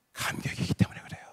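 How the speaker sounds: breathy hush on the key truth; whispered point. Real, not acted. Pastor whispering the sermon's point to the congregation.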